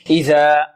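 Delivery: crisp interdental dh in إذا; careful dhal articulation. Shown as a demonstration. Teacher showing pupils where dhal comes from, careful articulation. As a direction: say إذا with the tongue tip at the upper teeth. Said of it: "من أين تخرج الذال".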